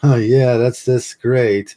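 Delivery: high, loud forced cheer, then slow; fake happy. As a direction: through a clenched-teeth smile. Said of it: "the creepy smile where your teeth clenched".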